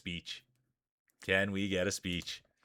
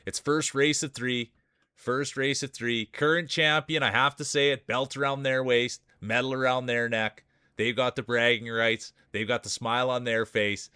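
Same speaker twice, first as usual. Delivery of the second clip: race announcer. Acted. Streamer introducing the champion racer to chat, announcer hype.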